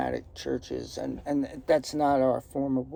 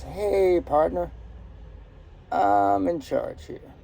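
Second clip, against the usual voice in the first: put-on Southern accent; 2 semitones higher than usual. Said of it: "I'm doing this with a Southern accent".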